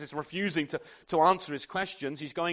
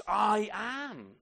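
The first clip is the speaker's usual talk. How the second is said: voice of God; 5 semitones higher than usual. Acted. God's name proclaimed.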